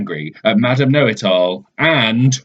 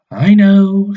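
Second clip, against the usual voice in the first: high, louder know-it-all voice; smug and certain, pitched way up; Madam Know-It-All; 10 semitones higher, 7 dB louder than usual. Acted. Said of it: "said Madam Know-It-All".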